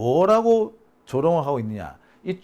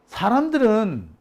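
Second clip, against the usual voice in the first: ordinary talk, nothing marked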